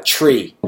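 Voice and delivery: "tree" starting with a CH sound, like "chree". Shown as a demonstration. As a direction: say "tree" with the T turned to CH. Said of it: "change T's into C H sounds".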